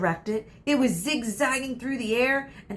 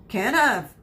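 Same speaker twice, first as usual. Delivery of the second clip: shaken voice; 2 semitones higher, 6 dB louder than usual. Acted. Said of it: "his voice shaken".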